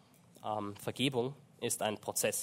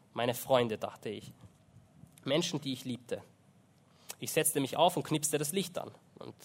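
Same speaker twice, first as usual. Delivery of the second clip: measured read-aloud with deliberate pauses; book reading aloud. A narrator's reading. Preacher reads Corrie ten Boom's account to listeners, narrating aloud. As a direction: read a first-person testimony to an audience.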